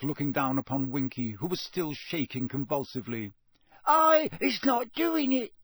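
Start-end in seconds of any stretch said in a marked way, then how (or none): 3.9-5.5 very high, slow squeaky elf voice; squealing elf. A narrator's reading. Elf denying to the official, terrified squeal. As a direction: squeal in terror. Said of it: "she squealed".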